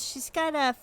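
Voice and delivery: deliberately explaining the spell to Emma; slow explaining. Acted. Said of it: "she goes".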